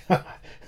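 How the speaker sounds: laugh. A narrator's reading. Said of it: "The O'Dowd laughed".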